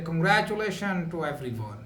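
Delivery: quick, confident congratulations at full voice. Shown as a demonstration. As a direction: say it out firmly, sure of the words. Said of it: "speaking in a louder way".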